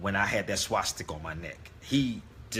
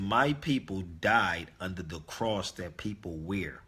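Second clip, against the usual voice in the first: calm retort; 2 semitones lower than usual. Retold or imitated. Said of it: "I was very calm with him".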